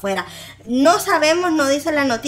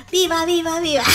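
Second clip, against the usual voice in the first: cheering; 6 semitones higher than usual. Acted. Cheering Yani on.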